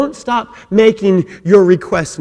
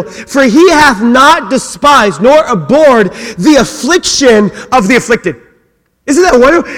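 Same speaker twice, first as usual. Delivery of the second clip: louder, higher fervent scripture proclamation; full-force preaching; 6 semitones higher, 6 dB louder than usual. Acted. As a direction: thunder the psalm out to the congregation.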